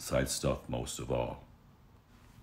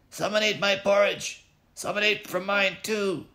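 high, louder outraged bear voices; indignant bears; 4 dB louder than usual. Acted. The bears discovering their porridge, high outraged cry.

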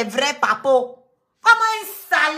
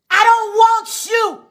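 higher, slow put-on mocking voice; 7 semitones higher, 4 dB louder, slower than usual. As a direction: sneer it in a put-on high voice. Mocking in English.

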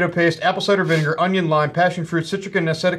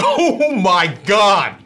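pained from the heat; 4 semitones higher, 6 dB louder, much slower than usual. Real, not acted. Right after eating the hot sauce.

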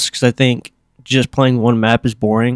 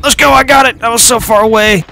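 high, loud, triumphant whoop; thrilled cheer; 10 semitones higher, 4 dB louder than usual. Real, not acted. Gamer cheering his long-distance kill, loud and high. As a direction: cheer the lucky long shot.

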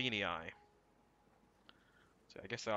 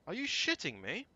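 real exasperation; exasperated shout; 10 dB louder than usual. Real, not acted. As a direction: yell in outraged disbelief. Sees three river crossings.

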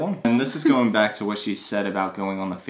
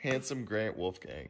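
soft coo; 11 dB quieter than usual. Real, not acted.

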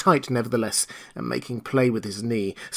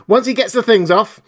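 higher, louder urgent call; loud order; 10 semitones higher, 8 dB louder than usual. Acted. Jaffers to the men, loud and urgent. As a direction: keep shouting it over the scuffle. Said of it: "said Jaffers loudly".

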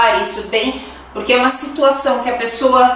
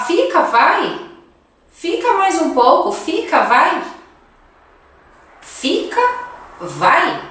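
pleading host; 5 semitones higher than usual. Acted. Host begging guest to stay.

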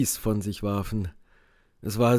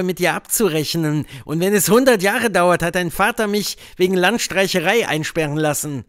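louder and higher, furious accusation; vengeful fury; 5 semitones higher, 4 dB louder than usual. A narrator's reading. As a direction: spit out the old grudge. Indian Joe's long angry speech.

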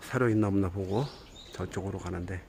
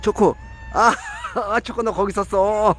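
cat-greeting voice; 9 semitones higher than usual. Real, not acted. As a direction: coo at the cats like pets. Calling and greeting cats.

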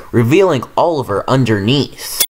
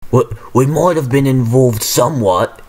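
stuttering. Acted. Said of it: "the diesel stuttered".

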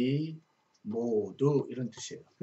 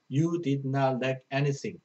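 each English word read slowly and clearly; slow verse reading; much slower than usual. Shown as a demonstration. Teacher reading a verse to Korean students, slow and clear.

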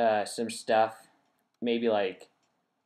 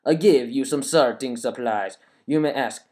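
put-on evil French accent; 6 dB louder than usual. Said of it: "I'm gonna read it in a French accent".

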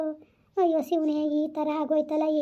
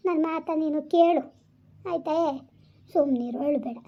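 gentle, hushing reassurance; calm a crying child with patient pleading; tender soothing. Acted. Soothing a crying loved one.

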